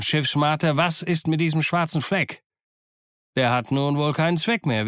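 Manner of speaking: smug pirate leader, pitch slightly lifted; animated, self-satisfied ship's cook; triumphant Silver. Acted. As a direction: gloat lightly over the beaten rival. Silver gloats to George and crew.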